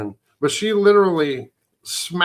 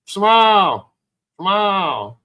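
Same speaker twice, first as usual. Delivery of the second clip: gentle mock Ron coaxing; 5 semitones higher, 3 dB louder, much slower than usual. Ron voiced, cheering someone up.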